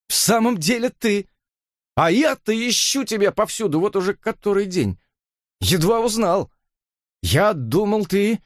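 high, choked-up friend's voice; Jimmy, trembling voice. A narrator's reading. Jimmy finds his lost friend, trembling and high. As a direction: hold back tears through the words. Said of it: "дрогнувшим голосом".

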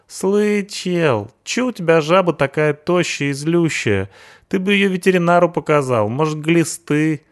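hoog, rauw punkersstemmetje, spottend; punk sidekick voice. Acted. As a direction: speel de brutale punker, veel hoger.

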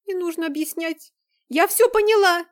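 high, loud panicked accusation; near-screaming frightened girl; frantic outburst. Acted. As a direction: fling it at him in panic. Cornered girl accuses Vlad.

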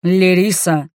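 usual speaking voice

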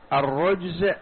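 "الرجز" ending in a voiced z; pronounced with zay. Shown as a demonstration. Teacher showing students the zay reading, "الرجز" ending in voiced z. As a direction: say "الرجز" with a clear buzzing zay at the end. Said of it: "بالزاي".

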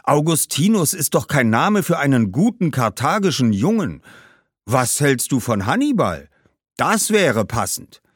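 lightly voiced scolding ancestor; a touch of ghostly disapproval, emphatic; disapproving ghost. Ghost suggests a better name. (leicht tadelnder Geist)

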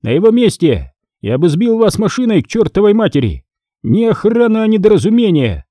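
the boss tears into his men; boss scolding. A narrator's reading.

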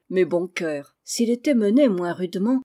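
plain reading voice

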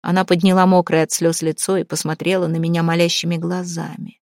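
usual speaking voice

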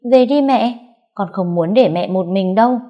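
put-on a small boy insisting he stay with mom; child pleading. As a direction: son refusing to leave his mother. Child begs mother.

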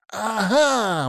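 high, pointed aha; triumphant exclamation. A narrator's reading. Monty seizing on her slip, triumphant aha. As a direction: catch her out with it. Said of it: "воскликнул он".

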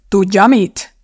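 loud, heated outburst; worked-up, forceful challenge; spluttering with anger. A narrator's reading. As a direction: spit it out in a temper. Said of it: "fröcsögte Phil indulatosan".

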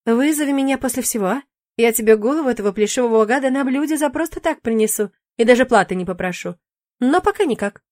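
breezy demon shrugging it off; lightly voiced demon. Demon brushing off the witch's fear, lightly voiced.

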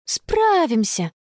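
slow, drawn-out confident reply in a high pitch; calm assurance. Acted. Girl assures her parents they will manage, calm. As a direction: reassure your mother calmly. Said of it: "спокойно ответила Конни".

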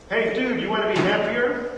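mock slick recruiter; pushy evangelist. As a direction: hype up a hollow promise. Preacher voices pushy evangelist.

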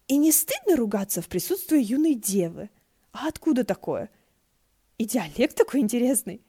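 playful, teasing lilt; Shi Qingxuan's bright voice. A narrator's reading. Shi Qingxuan teases He Xuan about earthquakes, carefree.

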